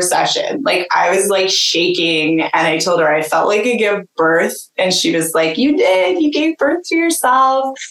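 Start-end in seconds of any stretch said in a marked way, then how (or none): 5.6-7.8 high, bright echo of the healer's joy; quoting the healer with a lifted, joyful voice; delighted reply. Retold or imitated. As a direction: voice her thrilled answer, pitched way up.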